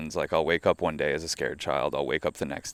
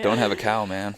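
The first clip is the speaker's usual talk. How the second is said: slightly raised cartoon-kid catchphrase; Bart; 4 semitones higher than usual. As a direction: lightly play a cartoon skater kid. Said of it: "Do I sound like Bart?".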